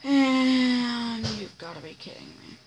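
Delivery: loud exasperated disbelief. Real, not acted. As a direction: groan it out at the screen. Exasperated at the game.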